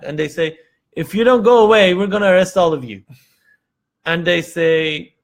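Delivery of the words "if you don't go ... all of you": louder, raised mock threat; guard threatening the waiting families, loud and quick. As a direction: bark it out fast like an angry guard.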